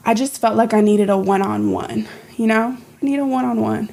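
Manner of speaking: breathless, gulping air; gasping for air. Real, not acted. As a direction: talk while short of breath. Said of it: "you're gasping for air".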